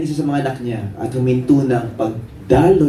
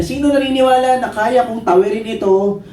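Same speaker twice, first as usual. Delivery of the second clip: higher, projected call to a crowd; tightrope walker showman; 8 semitones higher than usual. Acted. Tightrope walker challenging his audience, showman's high call. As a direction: work up the audience like a circus performer. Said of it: "Di sabi niya".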